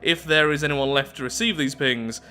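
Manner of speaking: measured storyteller with lively emphasis; event text narration. Acted. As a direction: read it out like a documentary script. Reads event text aloud.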